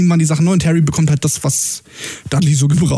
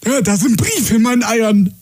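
higher, indignant caller; complaining caller; 5 semitones higher than usual. Retold or imitated. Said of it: "dieses Gespräch so nachgeahmt".

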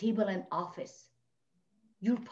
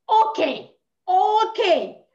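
stunned loud okay; 7 semitones higher, 8 dB louder, much slower than usual. Retold or imitated. Reacting to husband offering divorce.

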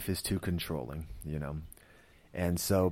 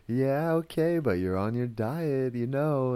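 higher, louder put-on wife voice; mock a wife's sing-song reminder about a diet; imitated chiding wife; 6 semitones higher, 4 dB louder than usual. Retold wife reminding husband of diet.

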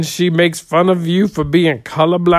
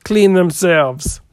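frog voice; 5 semitones higher, 5 dB louder than usual. Acted. Joke setup in odd voice.

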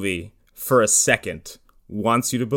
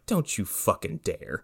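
mock warning; 2 semitones lower, 9 dB quieter than usual. Viewer warning the film.

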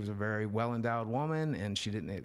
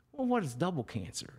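pitched way up, marvelling; amused disbelief; 7 semitones higher than usual. Retold or imitated. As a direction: ask it like you can't believe the joke. Marvelling at the joke.

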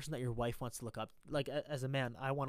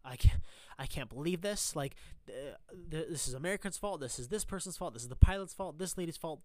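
mock victim complaint, raised pitch; higher-pitched, put-on blaming rant; playing the victim; 3 semitones higher, 4 dB louder than usual. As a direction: imitate someone whining and shifting blame. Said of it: "play victim to it and be like".

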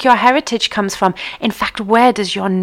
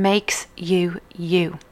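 whisper; 3 semitones lower, 5 dB quieter, much slower than usual. Acted. Dramatic hushed end to the point.

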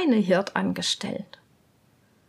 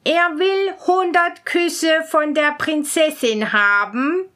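lady-in-waiting; 4 semitones higher, 3 dB louder than usual. Acted. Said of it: "sagte eine Hofdame".

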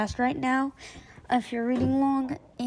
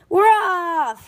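lightly acted excited yell; read-aloud yell; 6 semitones higher, 6 dB louder than usual. A narrator's reading. Bus driver announcing the trip, a light yell. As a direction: call it out cheerfully. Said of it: "he yelled".

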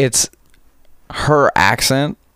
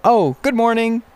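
high-pitched attempt at an Indian accent; 13 semitones higher than usual. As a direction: imitate a coworker's thick Indian accent. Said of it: "Does she have an Indian accent?".

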